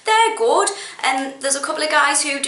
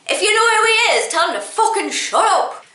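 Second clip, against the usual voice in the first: loud, high, rapid rant; angry outburst, pitched right up; worked-up anger; 10 semitones higher, 4 dB louder, faster than usual. Real, not acted. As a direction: fire it off fast and furious. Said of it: "God, I'm getting so angry".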